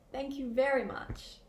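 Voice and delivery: genuinely grateful thanks; mean the thanks fully; sincere. Shown as a demonstration. Teacher showing a sincere thank you, warm. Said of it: "It's sincere".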